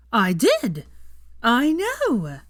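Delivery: put-on loud, high drunken dismay; horrified. A narrator's reading. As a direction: gasp it in horror. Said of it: "looked at Hermione in horror".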